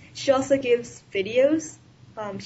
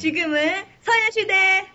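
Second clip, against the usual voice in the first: excited slogan; 7 semitones higher, 3 dB louder, much faster than usual. Real, not acted. Group slogan sign-off.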